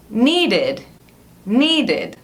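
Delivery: "needed" slow, ending in a clear id syllable; "needed" said as nee-did. Shown as a demonstration. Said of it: "som de id no final". ("needed" com som de id)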